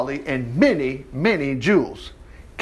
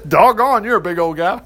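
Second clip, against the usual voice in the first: laughing. Real, not acted. Laughing at the bodyguard.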